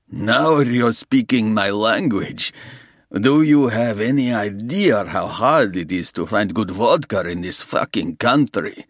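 a lightly voiced Russian gangster, smooth and sure; menacing Russian. Russian gangster offering Soames a deal, smooth menace. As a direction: lay out the terms like a patient crook.

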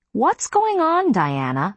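high, slow, frantic question; the aunt panicking at the scene; wild alarm. A narrator's reading. Aunt demanding answers from Diana, high and wild. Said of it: "looking wild".

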